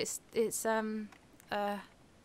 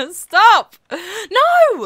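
loud, high panicked shout; yelling stop; 10 semitones higher, 12 dB louder than usual. Real, not acted. Yelling at the runaway mining turtle, loud and high. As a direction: bellow at it to halt.

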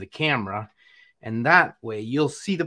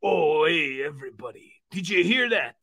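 upbeat puppet fitness host; Uncle Vino puppet voice; 2 semitones higher than usual. Pretend.

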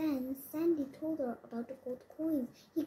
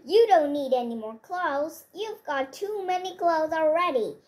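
loud scolding rant; husband scolds wife about her clothes; angry shouting; 3 semitones higher, 8 dB louder than usual. A narrator's reading. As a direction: tell her off at full volume.

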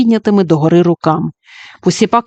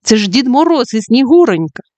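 excited exclaim; 4 semitones higher than usual. Acted. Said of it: "вигукнув майстер Так".

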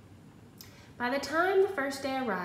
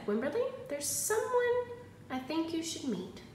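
a higher, sing-song teacher voice; a kind teacher making an introduction; 5 semitones higher than usual. Acted. Teacher introduces Wimberly to Jewel, high sing-song voice.

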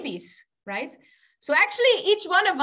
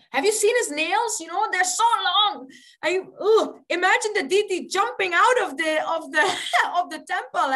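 high, quick, hammed-up dread; mock horror; 5 semitones higher, 4 dB louder, faster than usual. Pujari scared of the deity's long nails, mock horror. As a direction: recoil in comic alarm.

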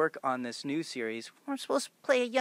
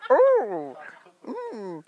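high, louder, surprised ooh; 11 semitones higher, 7 dB louder than usual. Real, not acted. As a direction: react with delighted surprise. Reacting to the cooking game.

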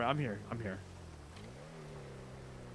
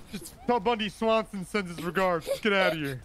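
mobster talk. Acted. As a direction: lay it on like a movie gangster. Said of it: "Stop talking like that".

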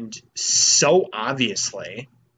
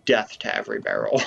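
mock battle cry; 2 semitones lower, faster than usual. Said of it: "now I'm just like".

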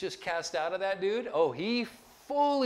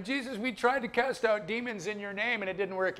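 lightly voiced, higher-pitched complaint; complaining disciples; 4 semitones higher than usual. Disciples reporting a failed exorcism to Jesus, mild mock complaint. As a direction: imitate a follower bringing a failure to the master.

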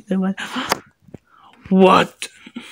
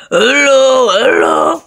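calling out; 5 dB louder than usual. Real, not acted. Calling to the sleeping players, loud hello. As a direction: call out hello to wake someone.

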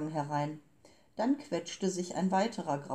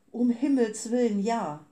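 higher and louder, far timbre; startled exclamation; 5 semitones higher, 7 dB louder than usual. Acted. The shell's cry to Momo, alarmed and loud. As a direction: gasp it out in alarm.

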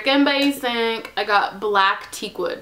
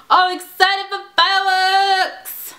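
high, loud and slow, bursting with excitement; giddy fireworks excitement; excited; 9 semitones higher, 6 dB louder, slower than usual. Real, not acted. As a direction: squeal it out with glee.

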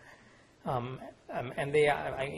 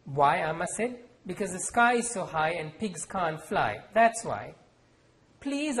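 measured author reading with voiced characters; story reading; 2 semitones higher than usual. A narrator's reading. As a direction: read the scene aloud, letting the characters speak. Author reads novel aloud.

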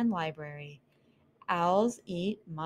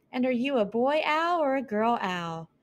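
higher and a bit louder mouse voice; nosy little mouse; 6 semitones higher, 4 dB louder than usual. Acted. Mouse Cleopatra demanding the owl's sex, higher and louder. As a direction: press the owl for an answer.

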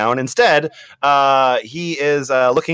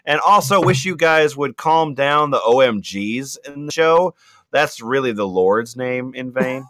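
Latina mom voice. Acted. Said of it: "more Latina, uh, Republican mom".

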